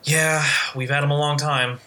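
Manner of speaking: lightly voiced sweet old lady, gentle and unbothered; a hint of a kindly grandma brushing it off. Shop lady on the phone, a touch sweet and old. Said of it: "the sweetest old lady fucking voice".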